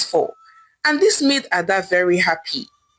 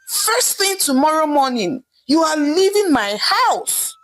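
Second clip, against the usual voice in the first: angry scream; 6 semitones higher than usual. A narrator's reading. Wife throwing the niece out of her house, angry and raised. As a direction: spit out the eviction, pitch raised. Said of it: "Nkoli screamed angrily".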